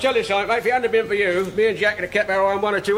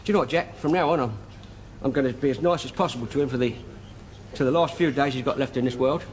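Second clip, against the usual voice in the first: solemn pity; 7 semitones lower, 3 dB quieter than usual. Acted. Solemn vow about dying man.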